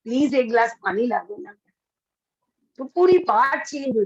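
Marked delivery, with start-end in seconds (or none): 0.0-1.5 gentle, polite. Shown as a demonstration. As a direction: ask with delicacy and grace. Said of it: "नजाकत से बोलेंगे". (नजाकत भरा नरम लहजा)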